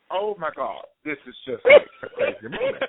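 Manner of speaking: high, loud squeal of disbelief; overwhelmed excitement. Real, not acted. Guest meets idol live on radio, squeals with delight. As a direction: burst out, overwhelmed and starstruck. Starstruck guest meeting his fan.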